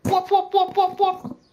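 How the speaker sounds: high piping whoop-whoop-whoop; turtle call. Acted. Player imitating a turtle growl with high whoops. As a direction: hoot it out like a silly turtle. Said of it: "Do they hear me growl like a turtle does?".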